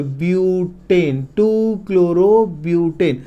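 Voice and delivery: measured, drawn-out chemical name; slow dictation. Shown as a demonstration. Teacher naming the carbon chain for students, slow dictation. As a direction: stretch each part so students can follow.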